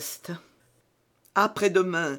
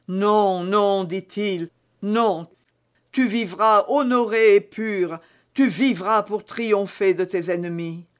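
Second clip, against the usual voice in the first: passionate refusal; 3 semitones higher, 3 dB louder than usual. Acted. Felton passionately refuses her death.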